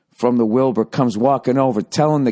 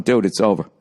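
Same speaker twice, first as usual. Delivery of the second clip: low, even imitation of an unmoved friend; lower-voiced, matter-of-fact dismissal; deadpan buddy; 4 semitones lower than usual. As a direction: play the friend deadpan, pitched down. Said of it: "He's just staring straight ahead".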